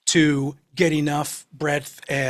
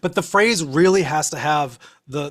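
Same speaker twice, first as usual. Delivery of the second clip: ordinary delivery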